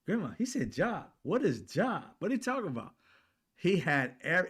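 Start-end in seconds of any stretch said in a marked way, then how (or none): 0.1-2.9 put-on confused kid. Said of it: "I said".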